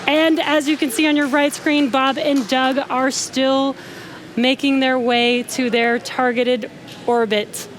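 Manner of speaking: high, thrilled announcement; excited. Real, not acted. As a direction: let real joy lift every word. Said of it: "so very exciting for us".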